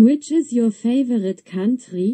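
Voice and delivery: put-on German-accented English. Reading an example question with a mistake for the lesson: German accent. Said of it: "nice German accent".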